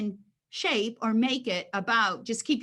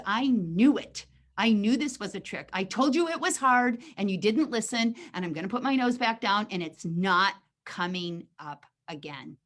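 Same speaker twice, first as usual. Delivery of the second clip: betrayed dog. Acted. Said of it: "And the dog goes".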